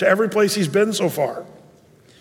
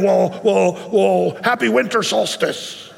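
mock greeting; slower than usual. Mocking the secular greeting.

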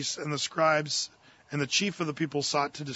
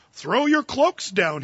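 higher, louder, slow cross order; 5 semitones higher, 5 dB louder, slower than usual. A narrator's reading. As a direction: demand it crossly, dragging each word. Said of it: "he said crossly".

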